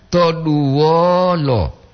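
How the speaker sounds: to duo lo very slowly, vowels held long; two long syllables. Shown as a demonstration. Teacher draws out to duo lo to show double vowel length. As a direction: stretch each vowel of to duo lo. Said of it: "ada yang dua harkat".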